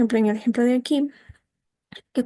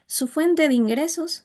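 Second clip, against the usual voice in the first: "Su fuente de ingresos" held level, dipping slightly at the end; level then dipping tune; 5 semitones higher than usual. Shown as a demonstration. Teacher showing students a level tune that dips slightly. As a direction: keep "Su fuente de ingresos" steady, let it sink a little. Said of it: "se mantiene el tono y luego vuelve a bajar un poco".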